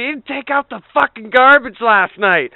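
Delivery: mock angry dad. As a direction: fake outrage over the garbage. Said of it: "It's like".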